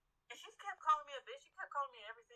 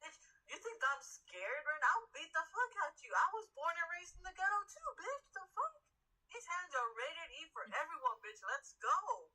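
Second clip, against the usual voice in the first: retold fighting talk; 5 semitones higher than usual. Worker challenging customer to fight.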